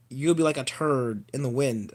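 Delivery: a hint of a low, quiet monster growl; quoting the trailer's Venom with a touch of menace; lightly voiced Venom. Vlogger mocks the Venom trailer line, lightly voiced low growl. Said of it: "you've got Venom like".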